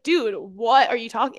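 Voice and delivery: put-on light Australian accent. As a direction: insist in a casual Australian accent. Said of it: "this is in an Australian accent".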